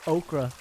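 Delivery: Okra repeated with Filipino vowels; Filipino pronunciation. Shown as a demonstration. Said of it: "I could say it the Filipino way".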